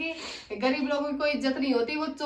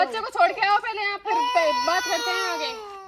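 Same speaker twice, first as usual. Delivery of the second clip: louder, higher, overriding rebuke; angry scolding; 4 semitones higher, 6 dB louder than usual. Acted. Employer refusing to let maid leave, angrily. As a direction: cut her plea off sharply. Employer cuts off maid's plea.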